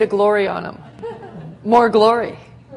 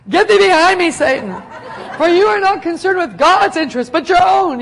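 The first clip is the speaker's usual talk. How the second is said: stern rebuke; 8 semitones higher, 9 dB louder than usual. Retold or imitated. Jesus rebuking Peter, voiced loudly.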